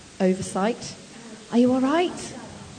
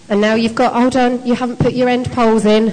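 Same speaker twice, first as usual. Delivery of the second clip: called out; 6 dB louder than usual. Real, not acted. Calling across to busy teams.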